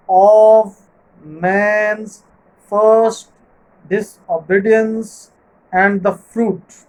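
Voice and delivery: slow, measured reading that marks the beats of the line; recited verse line. Shown as a demonstration. Teacher reciting the opening line of Paradise Lost for students, slow and measured. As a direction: read the line slowly so each stressed syllable lands. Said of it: "The first line is".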